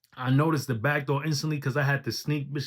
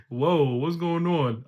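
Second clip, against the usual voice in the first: delighted surprise; slower than usual. Real, not acted. Reacting again with laughter.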